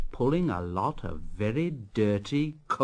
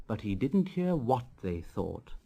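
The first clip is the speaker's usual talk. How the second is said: fading softer into sleep; sleepy fade; 7 dB quieter than usual. A narrator's reading. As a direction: let the voice drift off as the engine falls asleep. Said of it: "he was so tired and happy".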